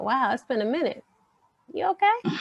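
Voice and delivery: a friend's sudden concerned question, voice jumping up at the end; mock caring check-in.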